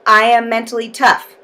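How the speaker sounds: firm, loud affirmation. Shown as a demonstration. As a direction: declare it out loud with conviction. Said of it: "And now say out loud".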